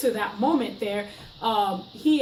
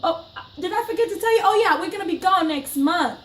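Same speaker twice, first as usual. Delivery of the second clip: high, syrupy fake-nice brush-off; mock sweet sarcasm; 6 semitones higher than usual. To the forty-year-old roommate, sugary sarcastic goodbye. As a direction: sweetly rub it in that we're leaving. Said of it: "And I was like".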